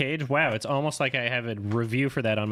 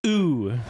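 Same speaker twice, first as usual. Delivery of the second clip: mock ooh for ow; 4 semitones higher, 5 dB louder than usual. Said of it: "does he say ooh instead of ow".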